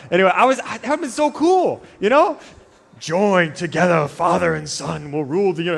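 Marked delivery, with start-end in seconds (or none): 3.0-5.8 half-joking sci-fi villain delivery, slowed down; Darth Vader-style line. Retold or imitated. Preacher sneaking in a Star Wars bit, mock villain voice. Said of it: "I just wanted to do it one time".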